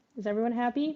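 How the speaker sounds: normal talking voice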